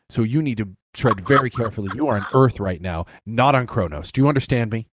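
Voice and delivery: low, confidential stern warning; dropped accent, in earnest. Retold or imitated. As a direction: imitate an undercover officer reprimanding colleagues. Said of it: "he drops the accent".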